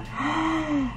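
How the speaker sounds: sharp gasp of delight at the colour; a quick, thrilled intake of breath. Real, not acted. Admiring eyeshadow colour.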